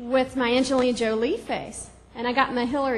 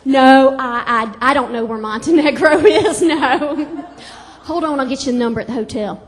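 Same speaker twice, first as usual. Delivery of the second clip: chatty mom on the phone; 9 dB louder than usual. Retold or imitated. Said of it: "my mom would be like".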